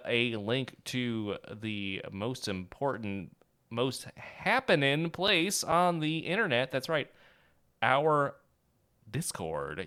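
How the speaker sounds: slow, drawn-out hype; milk every word; dramatic slow build. Acted.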